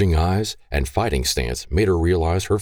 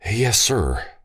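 sighing; 6 semitones higher than usual. Acted. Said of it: "Lee said with a sigh".

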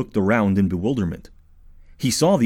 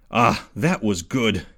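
hoarse whisper; slower than usual. Acted. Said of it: "he said in a hoarse whisper".

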